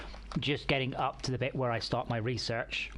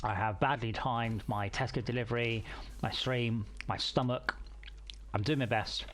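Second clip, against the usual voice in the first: talking through a mouthful; eating while speaking; chewing while talking. Real, not acted. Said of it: "I'm sorry if you can hear me eating".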